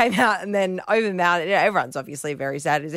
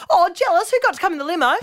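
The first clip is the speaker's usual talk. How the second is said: put-on high, bright-eyed kid voice, much higher; little cousin voice; 11 semitones higher, 3 dB louder, faster than usual. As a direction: play the innocent little cousin, pitched well up. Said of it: "my little cousin goes".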